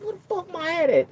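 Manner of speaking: high, loud demand; yelling for the hat; loud panicked shout; frantic yell. Retold or imitated. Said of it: "I'm like".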